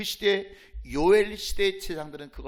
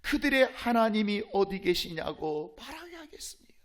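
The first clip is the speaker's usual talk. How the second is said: mild pleading, dropping into hushed breath; imitated tearful prayer. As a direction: retell a priests' plea, sinking away at the end. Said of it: "제사장들이 울면서 기도합니다".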